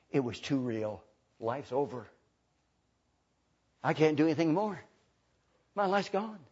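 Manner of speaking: subdued acted regret; regretful. Preacher voices someone whose life is over, subdued regret. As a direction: voice understated regret with pauses. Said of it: "that regretful attitude".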